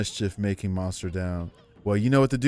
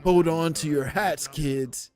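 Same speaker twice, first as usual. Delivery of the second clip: surfer dude. Acted. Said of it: "that broed out surfer dude voice".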